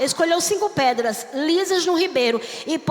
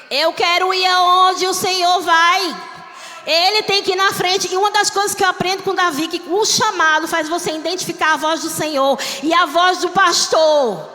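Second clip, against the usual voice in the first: higher, louder preacher's cry; fervent preaching; 4 semitones higher, 5 dB louder than usual. Acted. Pastor preaching to church, rising into a loud cry. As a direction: preach it out to the congregation. Preaching rises to full force.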